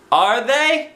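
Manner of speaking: put-on high, slow child voice; lightly voiced boy. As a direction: answer like a gentle little boy. Christopher voiced.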